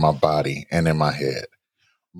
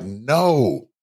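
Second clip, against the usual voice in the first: pleading inner voice; 4 semitones higher than usual. Retold or imitated. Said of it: "my heart is like".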